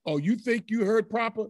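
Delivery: acted indignant retort; mock retort. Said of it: "And this time he said".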